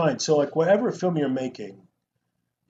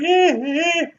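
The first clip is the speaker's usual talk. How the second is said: mock cowboy grunts; 14 semitones higher, 6 dB louder than usual. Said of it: "they're like".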